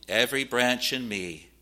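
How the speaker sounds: solemn scripture quotation, sinking at the end. Acted. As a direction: quote it as a grave warning. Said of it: "he says this very solemnly".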